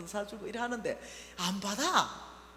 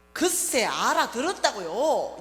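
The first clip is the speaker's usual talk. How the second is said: loud shout; 2 semitones higher, 10 dB louder, slower than usual. Retold or imitated. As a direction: yell it at your mother half laughing. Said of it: "큰 소리가 나오는 거죠".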